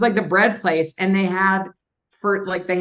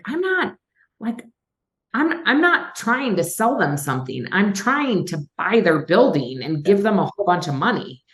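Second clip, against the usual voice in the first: retold upset protest; 2 semitones higher than usual. Retelling to the host how rude a seller was, upset and exasperated. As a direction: vent the hurt of being treated rudely, half-replaying it. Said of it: "I was really upset one day".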